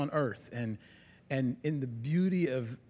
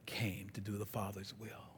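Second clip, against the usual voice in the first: whispered, very soft; hushed reverence; 8 semitones lower, 15 dB quieter than usual. Real, not acted. Preacher reaching the cross, hushed reverent whisper. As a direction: drop to an awed whisper. Solemn climax of sermon.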